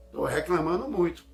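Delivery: loud, emphatic self-reproach; autorrepreensão enfática. Acted. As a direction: call yourself out, loudly. Voicing a self-reproach, repeated softer. (autocrítica em voz alta)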